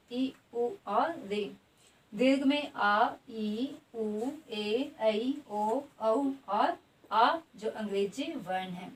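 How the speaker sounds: slow, each vowel sounded apart; vowel list demonstrated. Shown as a demonstration. Teacher repeats the vowel groups for the class, slowly. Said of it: "ह्रस्व स्वर के अंतर्गत आते हैं".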